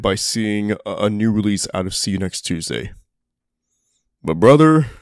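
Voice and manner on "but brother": loud, excited exclamation. Real, not acted. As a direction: burst out with enthusiasm. Emphatic turn to own fandom.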